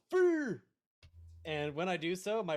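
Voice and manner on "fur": high, loud battle cry; sudden in-character shout; yell. Acted.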